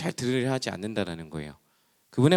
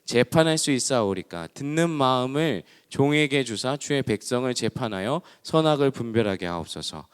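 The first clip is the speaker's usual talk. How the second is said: scripture reading. Real, not acted. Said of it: "말씀에 이렇게 나와 있어요".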